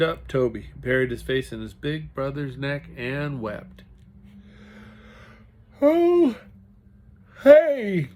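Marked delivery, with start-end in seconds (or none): 5.8-8.1 startled high call; surprised. A narrator's reading. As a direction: caught off guard by tears. Comforting weeping little brother.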